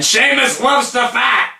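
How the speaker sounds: high, drawn-out commentator cry; mock commentator yell. Mimicking commentators hyping Sheamus's fight, mock yelling. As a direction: belt it out like a wrestling announcer.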